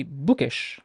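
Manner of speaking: "bookish" with a short, single k; one light k in "bookish"; undoubled K. Shown as a demonstration. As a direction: release the k in "bookish" at once, no hold. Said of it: "The K is very undoubled".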